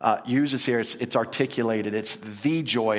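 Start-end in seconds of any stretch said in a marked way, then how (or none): 1.9-3.0 slow, low emphasis on "the"; "the" said slowly and weightily; stress on "the". Shown as a demonstration. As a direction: draw out "the" emphatically before joy. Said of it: "It's emphatic".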